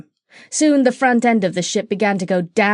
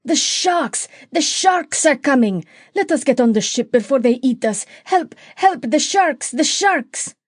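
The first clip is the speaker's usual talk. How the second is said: high, panicked cries of pirates; crying out in fear; 5 semitones higher than usual. A narrator's reading. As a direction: yelp for help as the sharks come. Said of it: "cried out in great fear".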